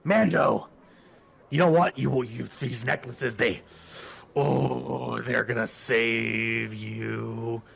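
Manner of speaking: lightly voiced alien street seller, loud then drawn out; hammed-up vendor's pitch; necklace vendor. Game master voices pleading necklace vendor.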